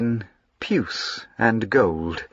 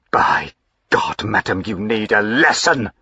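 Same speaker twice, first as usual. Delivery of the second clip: flaming anger. Acted. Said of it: "he flamed".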